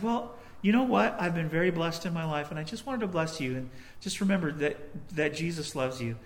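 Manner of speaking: softly spoken, sincere reassurance; gentle blessing. Retold or imitated. Speaker to grateful couple after paying, gentle sincerity. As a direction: ease down into a kindly, quiet blessing.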